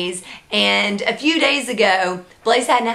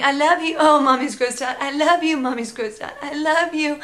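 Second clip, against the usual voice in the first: higher sing-song I love you between grossed-out lines; doting baby talk; 5 semitones higher than usual. Retold or imitated. Mom looking at her messy baby, doting sing-song. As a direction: coo lovingly while grimacing.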